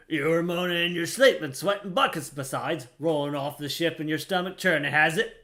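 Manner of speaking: a lightly voiced gruff old deckhand, chatty; grizzled sailor voice. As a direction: read it as a weathered old seaman, barely shifted. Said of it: "Stay with the grizzled voice".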